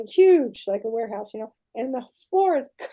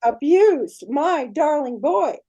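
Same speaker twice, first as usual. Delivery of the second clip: angry goddess; 6 dB louder than usual. Retold or imitated. Aphrodite repeats angry accusation.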